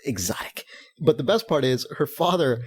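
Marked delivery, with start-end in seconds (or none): 0.0-0.6 mock exotic. Mocking exotic name.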